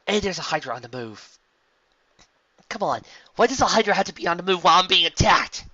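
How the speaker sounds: high, loud frustrated hero; exasperated heroine. A narrator's reading. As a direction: complain loudly mid-chase. Rainbow Dash exasperated.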